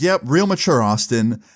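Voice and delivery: retold sarcastic remark; sarcastic praise. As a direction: imitate an unimpressed mom's mock approval.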